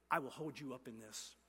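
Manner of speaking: hushed, low and soft; soft promise. Shown as a demonstration. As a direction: say it gently, as God's whisper. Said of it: "God says".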